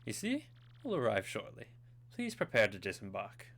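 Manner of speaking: lightly put-on posh accent. Ship's hand telling Mario to disembark, lightly posh accent. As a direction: announce it politely in a posh accent. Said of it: "I gave him such a posh voice".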